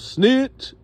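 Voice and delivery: high-pitched jeering call; imitated yelling out. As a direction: yell it like an accusation across the room. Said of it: "Larry yelled out".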